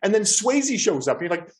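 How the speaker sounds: ordinary talk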